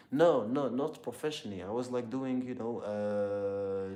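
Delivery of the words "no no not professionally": loud, raised-pitch correction; emphatic denial. Real, not acted. Streamer corrects a viewer on fighting professionally, emphatic denial. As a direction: jump in loudly to set it straight.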